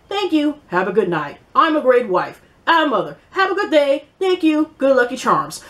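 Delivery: a hint of a stiff, formal robot assistant voice; lightly mock her resume-speak like a phone assistant; poking fun at a reality star's stiff way of talking, mild mock voice; mocking impression of a rapper. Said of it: "'cause she talks like this".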